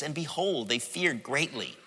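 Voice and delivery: hushed deadpan; understated reading. Retold or imitated. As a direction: read it quietly, as if nothing much happened.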